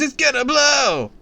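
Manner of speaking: very high, loud alarm; fake scream. A narrator's reading. Prankster kid screaming a warning at Matt, loud. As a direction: startle him for a prank. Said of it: "he screams".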